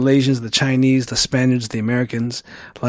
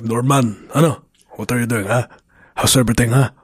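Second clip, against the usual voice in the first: Filipino dad voice; 3 semitones lower than usual. Retold or imitated. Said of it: "the low voice tone of, like, the typical Filipino dad".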